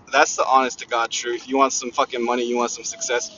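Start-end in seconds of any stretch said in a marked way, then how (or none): none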